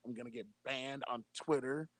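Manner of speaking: a hushed, lightly voiced Trump sending his fans home; Donald Trump impression. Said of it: "It's amazing how much you sound and look like him".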